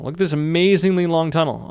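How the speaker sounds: a touch of hammed-up wonder; mock awe. Tutorial host hamming up awe at his long tunnel. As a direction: show off the tunnel like it's a marvel. Repeats, then "it's so scary.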